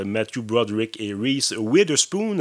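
slowed-down names in a self-mocking English accent. Shown as a demonstration. Film podcaster showing off his English accent on the actors' names. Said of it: "mon accent anglais, euh, extraordinaire".

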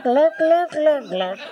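mock ventriloquist gluck. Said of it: "Look at how fucking I'm a ventriloquist".

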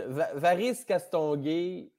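"Varice Castonguay" drawn out slowly; slow savoring. Shown as a demonstration. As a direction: announce the character's name slowly. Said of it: "ce serait un personnage".

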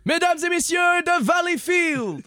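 lightly voiced town crier proclaiming; a hint of a medieval herald reading a decree; royal herald.

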